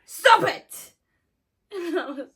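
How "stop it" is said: a huge, high scream of no, stop it; panicked yell at a friend faking a stroke; frantic scream. Retold or imitated. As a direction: scream it like she's choking in front of you. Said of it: "So I just went".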